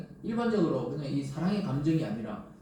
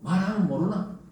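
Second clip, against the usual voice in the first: put-on gruff old-timer; 3 semitones higher, 4 dB louder than usual. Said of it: "자꾸 이래 말하잖아요, 옛날 어른들은".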